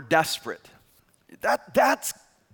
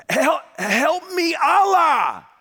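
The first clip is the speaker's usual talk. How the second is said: long, loud, high-pitched wail; screaming for help; 11 semitones higher, 6 dB louder, much slower than usual. Retold or imitated. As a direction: yell desperately, dragging out each cry. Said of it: "he's screaming".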